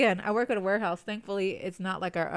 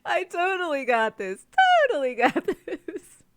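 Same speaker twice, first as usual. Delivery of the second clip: slow, laughing, higher sarcastic boast; mock confident; 9 semitones higher, 7 dB louder, slower than usual. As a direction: play it cocky as a joke. Mock boast after teammate's encouragement.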